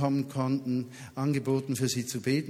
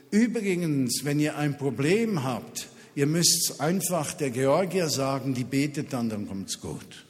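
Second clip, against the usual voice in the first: calling out loud. Retold or imitated. Young couple calls out to the garden party, louder. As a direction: announce it across the garden. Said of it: "rufen ganz laut".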